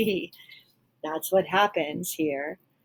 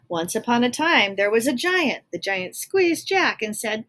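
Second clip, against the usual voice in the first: loud, bold storybook opening; loud storytelling; 5 semitones higher, 7 dB louder than usual. Acted. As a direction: read it big and booming. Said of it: "the Giant is talking in all uppercase".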